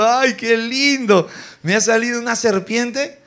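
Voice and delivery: mock delight. Preacher imitating Moses before the serpent, mock delight. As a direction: stretch it out as if charmed, tongue in cheek. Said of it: "Ah, riéndose".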